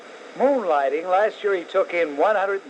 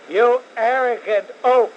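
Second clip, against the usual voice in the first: raised, loud scornful jab; angry insult; 6 semitones higher, 5 dB louder than usual. Real, not acted. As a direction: spit the insult at him. Host insulting governor on air.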